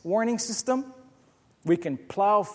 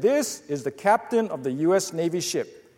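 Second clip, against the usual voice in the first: upset captain; 2 semitones lower than usual. Acted. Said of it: "got a little upset at this".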